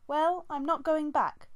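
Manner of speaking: high, loud, slow defiance; defiant. Acted. Squirrelpaw refusing to return to camp, defiant. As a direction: dig in and refuse.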